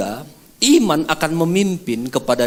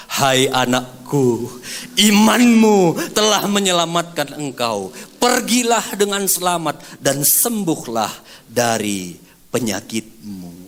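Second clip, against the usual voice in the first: tender Jesus; slower than usual. Acted. Jesus speaks tenderly to woman.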